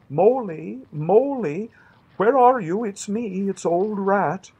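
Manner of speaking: high, loud, cheerful calls through the wood; cheerful calling. A narrator's reading. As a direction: shout for a lost friend, cheerily. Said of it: "calling out cheerfully".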